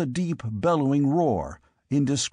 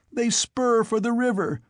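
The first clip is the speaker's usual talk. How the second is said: grieving squire; 6 semitones higher than usual. Acted. Squire reports the rout.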